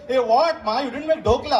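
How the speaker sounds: lightly put-on South Indian accent, Gujarati son back home; mock South Indian accent. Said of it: "they go back with a South Indian accent".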